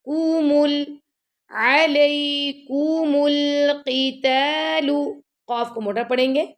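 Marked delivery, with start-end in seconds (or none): 0.0-4.9 slow melodic tajweed recitation; Quran recitation. Shown as a demonstration. Teacher recites verse for students, slow melodic chant. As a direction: chant each syllable drawn out. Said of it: "teacher recites the verse".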